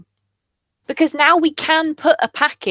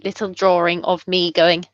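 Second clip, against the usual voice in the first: halting telepathic character; 9 semitones lower than usual. Acted. Player as character sending a thought, low and halting. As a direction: drop low and grope for each word.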